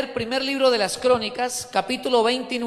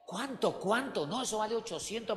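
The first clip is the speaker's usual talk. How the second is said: acted haggling; 8 dB quieter than usual. Acts out haggling over herbal bath.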